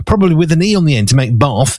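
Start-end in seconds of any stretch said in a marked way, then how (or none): 1.4-1.8 BATH as if spelt "barthe"; southern English "bahth" for "bath"; long-vowel bath. Shown as a demonstration. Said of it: "or B A R T H".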